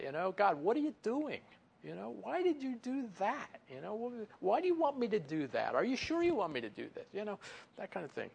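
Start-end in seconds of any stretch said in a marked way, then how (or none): 0.3-7.1 questioning God. Pretend. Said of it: "I wonder about that".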